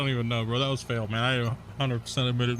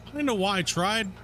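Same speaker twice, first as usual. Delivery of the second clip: put-on old man voice; 5 semitones higher than usual. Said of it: "combination between Meat Lord and Herbert".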